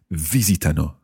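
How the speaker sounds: visitano with VI stressed, the rest falling; teacher's model of VI-si-ta-no; stress on first syllable. Shown as a demonstration. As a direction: hit VI, let -sitano follow lightly. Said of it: "It is a very tricky".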